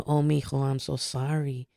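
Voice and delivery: lightly voiced Mexican accent, soft and consoling; gentle sympathy in a light Mexican accent; Mexican grandma accent. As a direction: imitate a grandma's Mexican accent, slowing and softening. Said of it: "in her accent".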